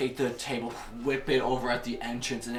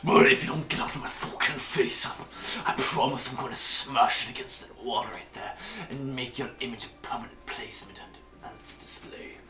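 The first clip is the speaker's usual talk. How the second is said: menacing Skiono; 2 semitones higher, 5 dB louder than usual. Acted. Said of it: "you can hear the Skiono in his voice".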